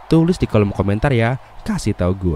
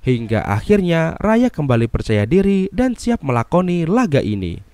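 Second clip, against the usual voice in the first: dramatic movie recap narration; narasi alur film; 6 semitones higher than usual. Acted. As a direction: narrate the plot in lively, swinging tones. (narasi rekap film yang dramatis)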